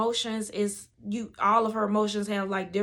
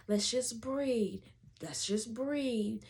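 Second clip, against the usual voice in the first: slow, soothing breathing cue; steady the mother with drawn-out words; calm coaching; 5 dB quieter, slower than usual. Retold or imitated. Doula coaches client through breathing.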